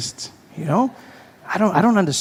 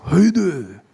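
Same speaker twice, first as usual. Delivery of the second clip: louder chest-voiced greeting; 3 semitones higher, 3 dB louder than usual. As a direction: say it from the chest, feeling strong. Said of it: "speak Japanese from your chest".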